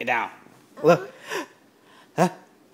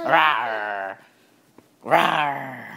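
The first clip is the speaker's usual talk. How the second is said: playful lion rawr, slightly low; lion roar; 3 semitones lower than usual. Pretend. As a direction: roar like a little lion for the baby. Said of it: "King of the jungle".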